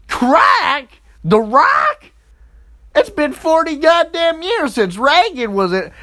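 high, loud incredulous shouting; shocked disbelief. Retold or imitated. Ranting at friends over the crack news, incredulous high shout.

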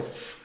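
"f" as a long held hiss of air, fff; sustained "f" sound for a reading drill; prolonged consonant. Shown as a demonstration. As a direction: hold the sound of "f", not its letter name. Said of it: "depois os prolongáveis".

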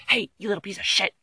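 fast, rising to loud insults; mock the article as a bully; mock rude article. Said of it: "this article is like".

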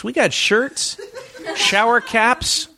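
high, slow words through laughter; laughing. Real, not acted. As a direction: laugh while saying it. Laughing while announcing merch.

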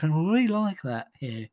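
unvoiced patronising whisper. Oxford graduate whispering approval to him. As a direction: breathe it confidingly. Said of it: "the Oxford graduates will go".

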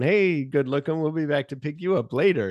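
a hint of a cheesy ad voice; Mister Microphone pitch. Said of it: "Mister Microphone".

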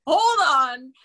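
high, loud startled laugh on the words; shocked disbelief. Retold or imitated. Retelling the stage manager's text, stunned and laughing. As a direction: blurt it out in stunned surprise. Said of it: "And I was like".

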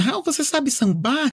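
lightly voiced friend; asking friend. Friend asking Raul if he can samba, lightly voiced. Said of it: "perguntaram assim".

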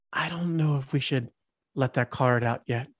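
whisper back. Acted. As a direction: confer quietly, only half whispering. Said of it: "I whisper back".

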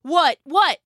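high, confused burst; startled stammer. A narrator's reading. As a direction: blurt it as if jolted awake. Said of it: "he stammered".

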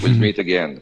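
a hint of impersonated rock-star farewell, like a singer. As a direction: deliver a knowing goodbye in English. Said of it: "Tu sais, à la manière d'un chanteur".

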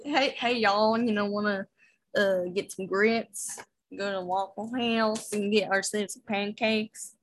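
slow, put-on Southern American drawl; lightly hammed-up Southern American accent. Shown as a demonstration. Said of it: "Can you do an American accent?".

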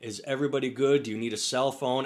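gently soothing retold cowboy; lightly voiced nice-guy cowboy calming someone down; mildly tender, consoling quote; kindly cowboy, reassuring. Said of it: "cowboy was being the nicest guy".

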